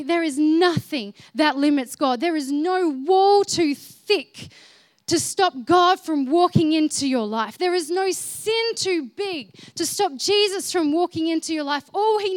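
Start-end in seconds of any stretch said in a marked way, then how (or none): 0.0-10.2 forceful preaching. Real, not acted. Preaching climax.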